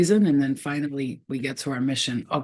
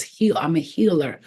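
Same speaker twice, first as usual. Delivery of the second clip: strong healer; 3 dB louder than usual. Retold or imitated. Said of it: "she says".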